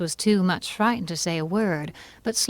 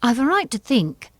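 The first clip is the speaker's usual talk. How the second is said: sharp; 5 semitones higher, 4 dB louder than usual. Acted. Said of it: "said Alice sharply".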